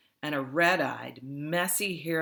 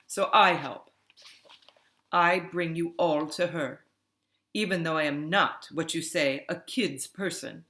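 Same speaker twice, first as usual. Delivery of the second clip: louder, brisk foreign-sounding woman; Ludmilla explaining; 2 semitones higher, 4 dB louder than usual. Acted. Ludmilla telling the kids she brings them to grandmother, firm. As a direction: lay out the plan plainly and firmly.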